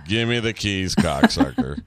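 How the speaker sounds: bored lineup reading, dropping low at the end; bored deadpan, trailing down; Kevin Spacey. Retold or imitated. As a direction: recite it with no interest. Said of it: "like, bored".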